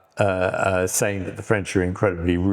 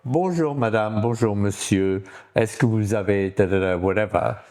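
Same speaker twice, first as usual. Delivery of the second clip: put-on careful French accent; polite shopper trying French. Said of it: "No, you've gone".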